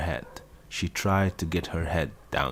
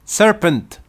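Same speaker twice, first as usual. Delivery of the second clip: shrill high scream, much louder; 13 dB louder than usual. A narrator's reading. Pigeon attacking Alice screams at her, furious high shriek. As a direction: scream the accusation. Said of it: "screamed the pigeon".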